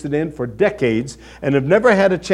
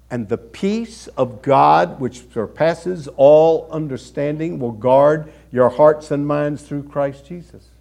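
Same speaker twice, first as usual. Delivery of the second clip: slow scripture reading; slower than usual. Real, not acted. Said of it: "There is a verse".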